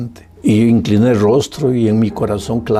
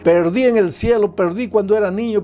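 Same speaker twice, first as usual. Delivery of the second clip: gloating devil; 7 semitones higher than usual. Retold or imitated. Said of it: "dio la gran carcajada".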